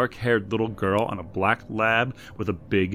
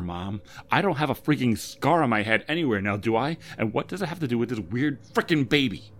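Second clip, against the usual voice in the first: high, loud rant of disbelief; furious disbelief; 7 semitones higher, 4 dB louder than usual. A narrator's reading. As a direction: rant like she's being pranked, voice pitched up. Debbie rants at her mother.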